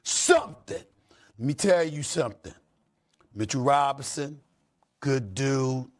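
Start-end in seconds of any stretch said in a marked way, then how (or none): 0.0-0.8 heated rant. Real, not acted. Host's fiery lecture to players.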